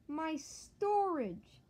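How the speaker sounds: mock despair, stretched long; anguished wail. Real, not acted. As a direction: wail it out in dismay. Losing storage again.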